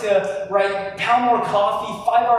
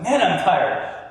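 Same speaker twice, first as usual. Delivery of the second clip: slower, heavier Man, I'm tired; darker tired; slower than usual. Shown as a demonstration. Showing the darker stage of the scale to the audience, heavy and slow. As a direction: let Man, I'm tired sag, dragging it out. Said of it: "it's a little bit darker".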